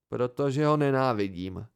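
understated bitterness; bitter reply. Acted. Narrator explaining his hatred of Ambrose, mildly bitter. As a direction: let a touch of bitterness in. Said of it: "pravil jsem trpce".

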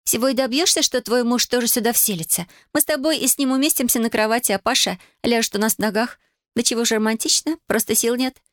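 high-pitched, mock-romantic younger sister; teasing. A narrator's reading. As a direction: needle your sister in a high, playful voice. Sister teasing about married life.

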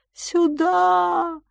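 high, eerie drawn-out wail; wailing call. Acted. The island's master luring lost travellers, a high eerie wail. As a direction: moan it like a lost spirit calling. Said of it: "выл и стенал хозяин острова".

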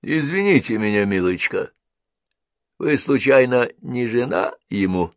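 lightly voiced nosy old woman; curious old woman asking Henrietta. A narrator's reading.

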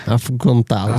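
Afrontá-los with the final s lisped into a slushy sh; imitating a lisp. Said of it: "Ela ficou com língua presa instantaneamente". (imitando língua presa, Afrontá-los com o s chiado)

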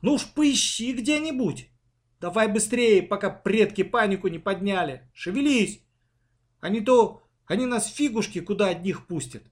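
high, impatient scolding; annoyed girl hurrying her sister; angry urging. A narrator's reading. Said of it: "Аня разозлилась".

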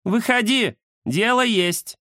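высокий бойкий кошачий голос; звать кота на дело; кошка Индира. Acted. (Индира зовёт Захара выйти)

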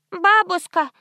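put-on high little child's voice; little girl begging her grandmother; lisping child. A narrator's reading. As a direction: ask grandma like a small kid. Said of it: "прошепелявил кто-то".

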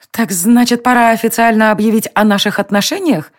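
an elf taunting the rulers; venomous. A narrator's reading. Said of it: "ядовито прищурилась". (ядовито)

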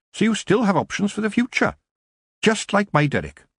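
high, animated elder witch; Mrs Proust, reassuring. A narrator's reading. Older witch counsels a troubled young witch, reassuring. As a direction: advise her in a lifted, emphatic voice.

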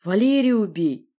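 grumbling monster's order. Acted. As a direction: bellow the order slowly. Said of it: "проворчал монстр".

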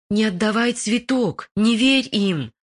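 usual speaking voice

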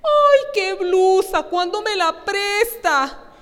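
high, slow, swooning praise of the blouse; gushing admirer. Pretend. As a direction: coo like an envious friend. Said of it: "le dicen".

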